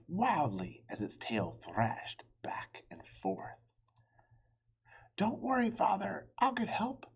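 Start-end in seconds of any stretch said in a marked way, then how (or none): 5.2-7.0 high call over the shoulder. Acted. Boy calling back to his dragon father while running, high. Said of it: "Radius called over his shoulder".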